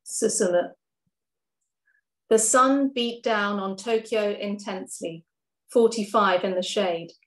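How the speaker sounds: measured, gentle poetry reading; poem reading. Acted. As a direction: read it like a spoken-word poem. Reads second poem aloud.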